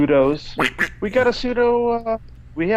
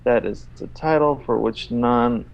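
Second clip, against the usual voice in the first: one long run-on read that ignores every stop; read without punctuation; slower than usual. Shown as a demonstration. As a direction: plough through with no sentence breaks. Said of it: "I'm gonna read it without his punctuation".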